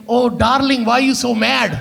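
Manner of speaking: mock-pleading Punjabi-accented husband. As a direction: soothe her in a Punjabi accent. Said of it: "that Punjabi accent is not gonna save".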